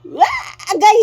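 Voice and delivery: sudden high yelp of strain; playful yelp. Real, not acted. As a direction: burst out with a loud cry. Playful shout while carrying. (kalit nga singgit)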